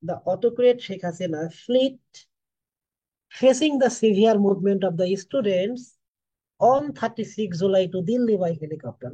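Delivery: very slow, each English word set apart; slow dictation. Shown as a demonstration. Teacher showing students another word order, very slow dictation. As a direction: spell out the sentence for the class at a crawl. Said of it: "অথবা তুমি এভাবে বলতে পারো".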